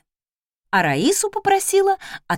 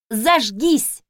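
Зажгись as a firm, louder command; order; 2 semitones higher, 4 dB louder than usual. Acted. Mistress orders the stove to light, firm. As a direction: bark the spell at the stove. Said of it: "приказала".

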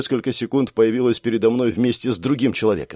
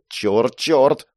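tense, hurried cursing; frustrated swearing; 2 semitones higher than usual. Acted. Girl drops things in haste, swearing in frustration. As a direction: curse under pressure. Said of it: "выругалась она".

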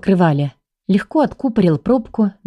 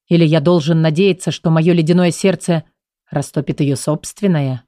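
low, icy, brooding king; low cold voice; 2 semitones lower than usual. Acted. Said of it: "продолжал мужчина низким холодным голосом".

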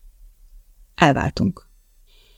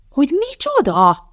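sharp, much higher indignant snap; snapping; 9 semitones higher than usual. Acted. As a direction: flare up in disbelief. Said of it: "csattant fel Elizabeth".

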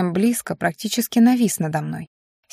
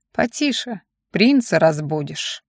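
offhand; 2 semitones lower, slower than usual. Acted. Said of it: "небрежно обронил".

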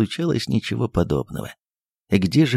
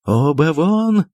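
high, loud, slow shout; keeps shouting; 6 semitones higher, 4 dB louder, much slower than usual. A narrator's reading. Still shouting the guests out, high, loud and slow. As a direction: hammer out both of you, get out. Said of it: "продолжал кричать Андрей Ефимович".

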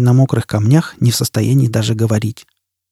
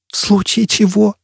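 «В случае чего» much higher, as a frantic question; crazed echo; 8 semitones higher than usual. Acted. Jisbella echoes Foyle before diving, crazed high voice. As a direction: repeat «В случае чего» in panicky high-pitched disbelief. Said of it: "безумным голосом повторила Джизбелла".

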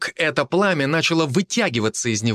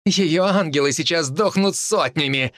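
snarling; 4 semitones higher than usual. Acted. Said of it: "оскалилась женщина по-волчьи".

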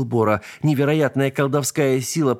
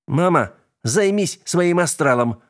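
slow, irritated retort, higher; snapping back; 6 semitones higher than usual. A narrator's reading. Son sawing the floor snapping at his mother, irritated. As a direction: snap at mother to leave him alone. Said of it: "огрызнулся".

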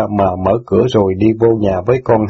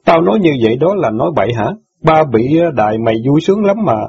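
a lightly voiced resentful boy, higher and scornful; sneering boy; 5 semitones higher than usual. Brother mocks sister for riding in cars, lightly voiced and scornful. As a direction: jeer at her with a hint of a sulky teen.

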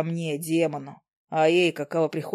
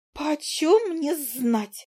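high, very slow little fly voice; a tiny creature shrugging it off; 6 semitones higher, much slower than usual. Acted. The fly answering Izi, high and drawn out. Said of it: "она развела лапками".

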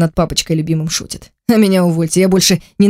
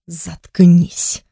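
ordinary delivery, nothing marked

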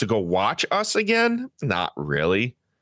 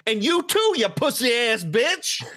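mock yell; 9 semitones higher than usual. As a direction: throw the insult at her like the rude guy. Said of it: "looks at her and go".

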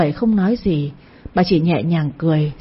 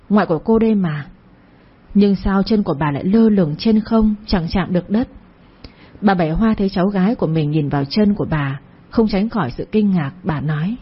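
ordinary delivery

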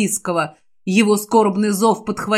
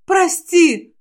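sorrowful apology; 8 semitones higher than usual. Acted. Jim apologises, possessed.

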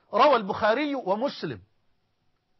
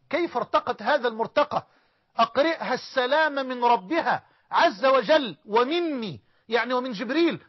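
rising fervor; 5 semitones higher, 4 dB louder than usual. Acted. Preacher marvels at Khadija's rank, louder fervent emphasis. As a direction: lift the greeting up with wonder.

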